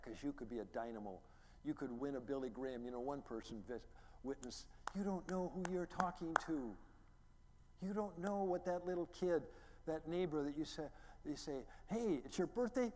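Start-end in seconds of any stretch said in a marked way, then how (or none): 4.9-12.9 higher and louder, urging the church; emphatic preaching. Real, not acted. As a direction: press the point hard. Preaching about witnessing.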